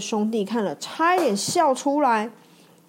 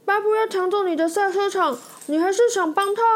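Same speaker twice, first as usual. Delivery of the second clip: a touch of incredulous, higher asking; mild disbelief; 10 semitones higher, faster than usual. Acted. Tate brothers asking Mater in mild disbelief. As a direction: question it, amazed he would help. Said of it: "他们不敢相信地望着脱线".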